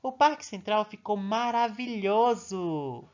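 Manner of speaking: teacher reading an exclamation of admiration, delighted; admiring exclamation. Shown as a demonstration. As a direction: say it with wonder. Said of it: "indica admiração, alegria".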